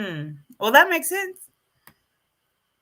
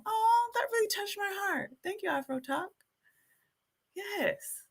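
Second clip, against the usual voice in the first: moved; 10 semitones higher, 8 dB quieter than usual. Real, not acted. Moved by viewer compliment.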